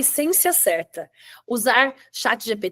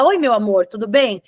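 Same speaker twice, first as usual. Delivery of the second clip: affectionate greeting; 3 dB louder than usual. Retold or imitated. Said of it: "de falar".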